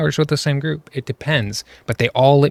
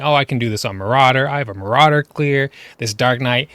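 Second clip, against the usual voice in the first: a hint of a smug bragging tank, faster; mocking cocky tanks; 4 dB louder than usual. Streamer mocks cocky tanks bragging about their clears, mild smug voice. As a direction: sneer as he imitates the cocky tanks' boast. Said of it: "They were saying".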